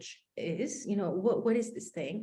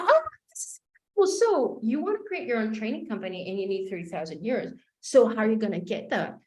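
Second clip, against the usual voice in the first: excited coach; faster than usual. Retold or imitated. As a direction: gush over it like a hyped coach.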